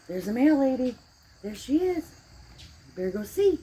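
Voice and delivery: high, loud, squealing voice for the dog; excited dog talk. Real, not acted. Excitedly talking to the dog Sally.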